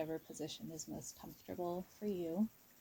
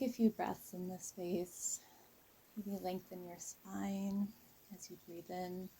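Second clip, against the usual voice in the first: guided meditation. Real, not acted. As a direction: ease listeners into a calm visualization, unhurried. Leads a guided visualization.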